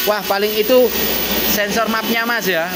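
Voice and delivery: a hint of a know-it-all commenter; second-guessing viewer. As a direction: lightly mimic someone chiming in with a theory. Mimics another viewer guessing the fault.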